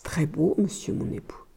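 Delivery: very soft, submissive answer; meek reply. A narrator's reading. Wife reporting to her husband on the stores, meekly. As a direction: shrink into a small hushed voice.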